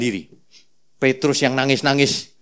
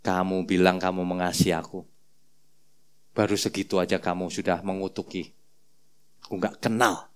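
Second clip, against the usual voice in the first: soft, low, hurt reproach; quietly disappointed; Jesus turning to Peter, softly hurt; sorrowful Jesus; 8 semitones lower, 10 dB quieter than usual. Acted.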